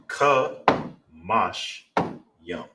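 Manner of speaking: final model of the word with Ka stressed. Shown as a demonstration. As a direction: lift the Ka, then run mash yum. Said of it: "that is how you say that".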